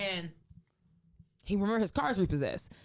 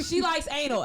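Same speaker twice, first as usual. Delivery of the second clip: high laughing quote; giggling through the line; laughing reread; 8 semitones higher, 5 dB louder than usual. Real, not acted. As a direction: laugh while reading it.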